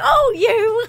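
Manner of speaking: high, loud mock telling-off; mock scolding. Friend retelling how Lisa scolded her, high and loud. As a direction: play the offended friend scolding. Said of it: "She was like".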